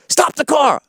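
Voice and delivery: high-pitched mock yelled command; retold urgent order. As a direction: call it out urgently, voice jumping up. Retold passenger's sudden order.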